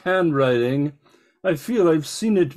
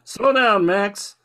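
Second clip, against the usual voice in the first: alarmed shout; 3 semitones higher, slower than usual. Acted. Passenger scared by reckless driving.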